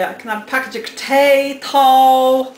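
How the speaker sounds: loud, put-on North Dublin accent. Shown as a demonstration. Showing viewers how crisps are ordered, North Dublin accent. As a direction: exaggerate the North Dublin vowels. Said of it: "like Dublin accents".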